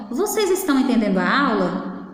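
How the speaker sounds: "Vocês estão entendendo a aula?" asked as a clear question; question intonation. Shown as a demonstration. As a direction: ask "Vocês estão entendendo a aula?" as a teacher checking on pupils. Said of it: "É uma pergunta que eu estou fazendo".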